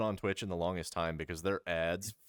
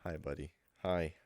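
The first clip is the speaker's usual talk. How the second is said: mock pity. Streamer consoles a supposedly neglected dog, mock pity. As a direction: coo apologetically, playing up the sympathy.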